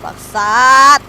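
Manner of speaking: loud angry swear; angry curse. Real, not acted. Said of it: "Aduh, sorry kasar".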